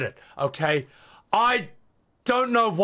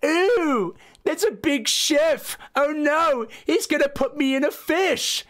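mock scared streamer; 5 semitones higher, slower than usual. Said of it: "play Little Nightmares and go".

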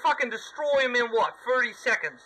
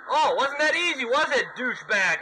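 gloating taunt; 3 semitones higher than usual. Real, not acted. Gamer taunting the defeated boss, gloating. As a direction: rub it in the boss's face.

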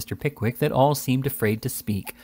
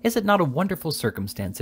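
raised, pointed indignation; emphatic indignant gentleman; 6 semitones higher than usual. A narrator's reading. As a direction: lecture his friends with a pounding fist. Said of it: "struck the table emphatically with his clenched fist".

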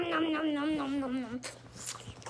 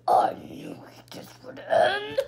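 whispering. Pretend. Toy fighter whispers before a fight.

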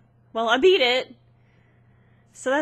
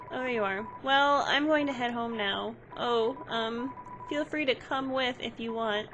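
shy ghost. Acted. Ghost shyly inviting the player home, timid. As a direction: mumble the offer, afraid of bothering.

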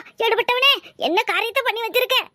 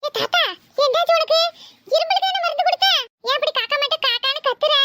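put-on boy; 7 semitones higher than usual. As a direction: ask the choking grandpa like a curious boy. Boy questions choking grandpa.

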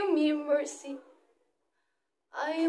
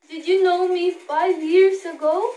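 louder, pleading challenge; challenging cry; 7 dB louder than usual. Acted. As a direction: throw the question at the crowd. Child challenging the crowd.

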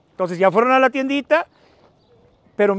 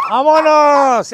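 long stretched shout of vámonos; drawn-out call; 3 semitones higher, 6 dB louder, much slower than usual. Real, not acted. Calling the group back to work.

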